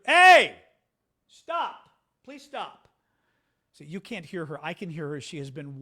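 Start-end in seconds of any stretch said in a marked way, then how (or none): 0.1-0.6 sudden, loud high yell at the dog; scolding shout. Real, not acted. Streamer breaks off to scold whining dog, shouting. 1.3-2.9 exasperated plea. Real, not acted. Streamer to whining dog mid-show, exasperated.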